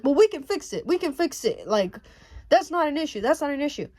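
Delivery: mock insistent salesman brushing it off; pushy retort. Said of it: "he's coming at me like this".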